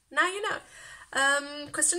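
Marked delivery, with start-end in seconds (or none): 0.1-0.6 Now you know bounced up high and louder; sing-song teasing echo; bright higher teasing repeat; higher playful repeat. Shown as a demonstration.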